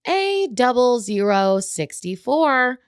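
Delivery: slow, flat announcement voice; like a machine calling numbers; robot voice. Retold or imitated. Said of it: "little robot voice".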